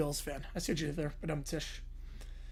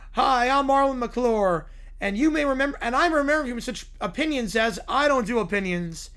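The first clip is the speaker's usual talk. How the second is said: Troy McClure; 3 semitones higher, 3 dB louder than usual. Retold or imitated. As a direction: play the cheesy TV host, slowed right down. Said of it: "Troy McClure".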